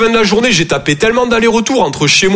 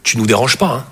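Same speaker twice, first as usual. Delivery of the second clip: sweet mother; 6 semitones lower than usual. Retold or imitated. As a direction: coax the child to stay away. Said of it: "Et elle est là".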